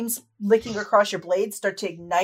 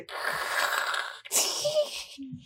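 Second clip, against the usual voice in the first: claw scrape; 7 dB quieter than usual. Acted. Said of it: "Scrapes down your armor".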